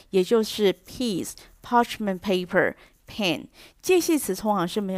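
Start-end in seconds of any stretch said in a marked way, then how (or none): 0.1-3.5 "piece", "parchment paper", "pen" each said slowly and weighted as the stressed words; slow demo of the stressed content words; stressing content words. Shown as a demonstration. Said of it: "重音会落在有意义的实词部分".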